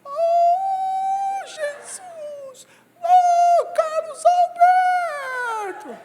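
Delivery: hammed-up desperate cry of the poor man; the poor man's scream on the TV show, mock wailing. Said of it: "Aí o pobrezinho falava assim".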